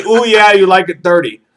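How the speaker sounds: mildly hammed-up come-on; call sign demo. Shown as a demonstration. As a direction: demonstrate the dirty-talk signal. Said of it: "When I say".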